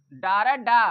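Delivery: डारा then डा, both loud and punched; sounding out the first syllable. Shown as a demonstration. Teacher showing the डा sound of डोर, loud and punched. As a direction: bark out डा for the class. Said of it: "डोर में काय का उच्चारण आ रहा है?".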